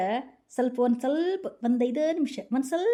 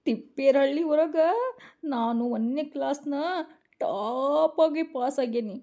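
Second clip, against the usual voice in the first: whining complaint. Acted. Wife whines after crying.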